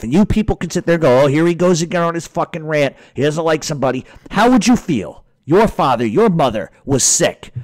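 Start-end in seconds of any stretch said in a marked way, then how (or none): 1.2-4.1 mock complaint, a little higher; mimicked critics. Ranter imitating viewers who dismiss him, mocking. 4.3-7.5 indignant, higher-pitched demand; real pissed-off challenge. Real, not acted. Ranter asking viewers to imagine a sick parent, indignant. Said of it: "shit that pisses me off".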